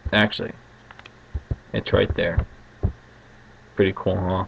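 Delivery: ordinary delivery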